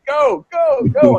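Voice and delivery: very high-pitched mock shout; urgent order. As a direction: shoo them along in a high yelp. Cop urgently sending the car on.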